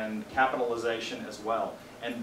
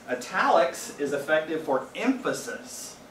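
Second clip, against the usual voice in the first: "effective" lifted higher and leaned on; emphasis on effective; 4 semitones higher than usual. Shown as a demonstration. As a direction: give "effective" a clear spoken italic. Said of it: "See what I did there?".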